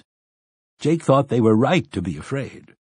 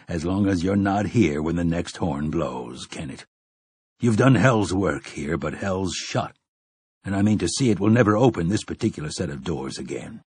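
low stern gunslinger; 4 semitones lower than usual. Acted. Roland continues his warning.

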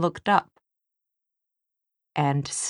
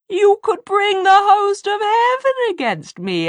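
very high, loud demon screech; high thin demon voice; 8 dB louder than usual. A narrator's reading. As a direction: shriek it like a demon. Demon character voice.

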